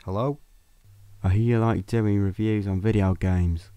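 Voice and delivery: a caller's put-on Cockney accent, lightly done; a lightly put-on Cockney voice on the phone; mock Cockney caller. Prank caller ringing Craig, mock Cockney accent. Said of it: "a poor attempt at a Cockney accent".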